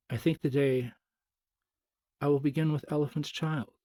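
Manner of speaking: crocodile talking between his teeth; through the teeth. A narrator's reading. Crocodile holding the elephant's child by the nose, talking through his teeth. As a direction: speak through a mouth clamped on a nose. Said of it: "between his teeth like this".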